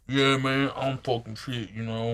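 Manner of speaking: lightly mocking wannabe gangsta; a hint of put-on street talk; gangsta impression. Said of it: "been hanging around too many black folk".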